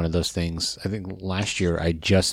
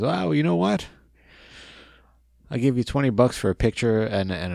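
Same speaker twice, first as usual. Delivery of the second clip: much higher, chirpy offer; Howard Finkel's voice; 6 semitones higher than usual. Retold or imitated. Finkel offering a picture deal to a fan, high and chirpy. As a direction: pitch a deal like a cheery old announcer. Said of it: "He goes".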